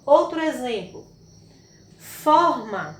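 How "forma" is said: "forma" with a strong FOR; stress on first syllable. Shown as a demonstration. Teacher showing the tonic syllable, "forma" stressed on FOR. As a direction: lean firmly on the FOR of "forma". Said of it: "e a sílaba tônica".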